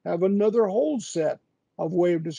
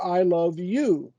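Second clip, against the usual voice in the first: "you" carries the weight, falling at the end; stress on you. Shown as a demonstration. Explaining emphasis to a colleague, stress on "you". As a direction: land on "you" in "I love you". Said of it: "the way you put emphasis on".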